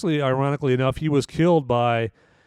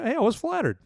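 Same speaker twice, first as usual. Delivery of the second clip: higher, lightly voiced Cooper sounding flattered; a breezy, pleased mock of the actor; mock Bradley Cooper; 13 semitones higher than usual. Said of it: "I was like".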